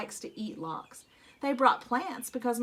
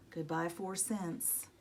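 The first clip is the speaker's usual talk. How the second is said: mock mournful; 5 semitones lower, 9 dB quieter, slower than usual. A narrator's reading. Mournful refrain over lost money.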